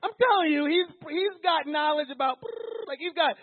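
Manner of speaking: high, loud, building to a cry; fervent preaching. Real, not acted. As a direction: pour passion into it.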